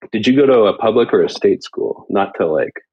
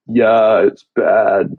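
lightly imitated friend's voice; Gordo; much slower than usual. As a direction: do an affectionate impression of an absent friend. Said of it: "That's a pretty good impression".

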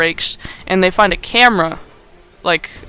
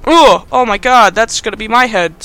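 mock panic; 3 semitones higher, 5 dB louder than usual. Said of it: "she's like".

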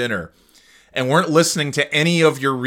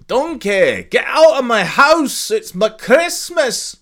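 high, loud hammed-up Shrek yelling at Donkey; mock angry Shrek; 12 semitones higher, 5 dB louder, slower than usual. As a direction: shout Donkey out of the house. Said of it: "They're just like".

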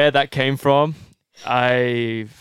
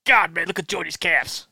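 higher American put-on accent; Ritz voice; 4 semitones higher than usual. Shown as a demonstration. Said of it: "one accent, Ritz".

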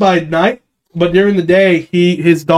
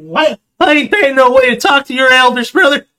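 redneck voice; 8 semitones higher than usual. Retold or imitated. Trolling players in voice chat, higher hick voice. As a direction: play a backwoods old-timer warning. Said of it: "I'm like".

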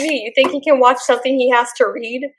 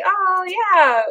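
higher, bashful thanks; flustered and shy; mock blushing soldier; blushy; 5 semitones higher than usual. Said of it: "he was being all blushy".

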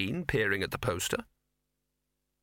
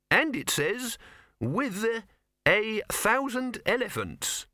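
reading aloud; 11 semitones higher, much slower than usual. Acted.

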